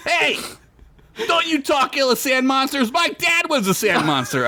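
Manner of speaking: high creature voice. Acted. Half sand monster objects.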